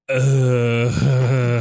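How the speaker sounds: drawn-out mock "uh"; long dopey "uh" in imitation; imitated blank moment. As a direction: imitate someone's mind going blank. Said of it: "where it was like".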